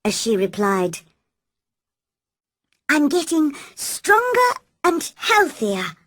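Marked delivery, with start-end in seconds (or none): 2.9-6.0 holding back tears. A narrator's reading. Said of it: "tried to keep her voice calm".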